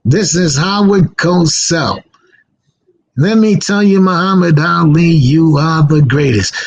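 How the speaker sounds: slow, drawn-out sportscaster voice; lightly voiced announcer, lingering on each word; Howard Cosell impression. DJ goofing in the studio, slow sportscaster drawl. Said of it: "it started off with".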